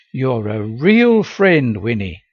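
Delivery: slow, heartfelt thanks; warm. Acted. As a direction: say it warmly and slowly. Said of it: "I said warmly".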